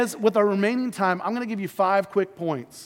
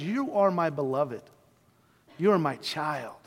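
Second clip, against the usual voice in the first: lower, gently spoken affirmation; mildly acted fatherly tenderness; tender reassurance; 5 semitones lower, 4 dB quieter than usual. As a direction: reassure a beloved child, unhurried and low. God's loving words against Satan's accusations.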